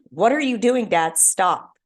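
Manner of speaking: retold scream. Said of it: "And Rhonda screamed".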